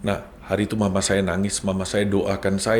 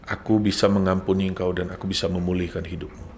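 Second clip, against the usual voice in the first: voice of God; 5 semitones lower, 8 dB quieter than usual. Retold or imitated. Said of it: "suara itu berkata".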